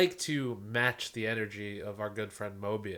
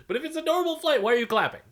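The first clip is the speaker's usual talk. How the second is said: much higher and louder, baffled; incredulous; 6 dB louder, faster than usual. Real, not acted. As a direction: ask it in open disbelief. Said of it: "incredulous rant".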